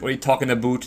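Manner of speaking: lightly mocked Canadian accent; a hint of stereotype Canadian, "about" said as "aboot". Shown as a demonstration. Gamer denying he has a Canadian accent, mock Canadian. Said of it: "the Canadian accent".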